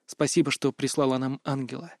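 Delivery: low, soft murmur; grateful whisper. A narrator's reading. Son thanking mother's portrait, hushed whisper. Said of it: "и шепнула".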